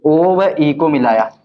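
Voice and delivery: very slow, word by word for the notebook; teacher slowly dictating the construction step; slow dictation. Shown as a demonstration. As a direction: dictate it so students keep up. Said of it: "रचना में लिख देना आप".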